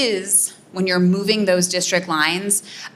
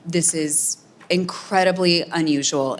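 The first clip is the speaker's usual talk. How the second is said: slow, with unusual leaned on hard; stress on unusual; slower than usual. Shown as a demonstration. Political scientist stressing how rare this is, slow stress on unusual. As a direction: drag it out and hit unusual. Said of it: "Emphasize the word unusual".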